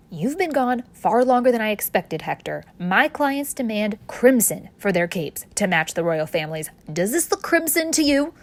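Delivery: barking owner. Acted. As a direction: chew out Hector for the wrong shade. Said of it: "barked the owner".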